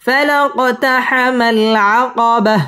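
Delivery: فلا اقتحم العقبة with the qaf bounced and a stop on العقبة; tajweed recitation. Shown as a demonstration. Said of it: "এখানে ওয়াকফ করতে হবে".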